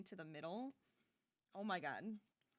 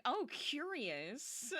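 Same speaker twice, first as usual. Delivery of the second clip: mock curious; 4 semitones higher, 5 dB louder, much slower than usual. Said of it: "Now I'm like".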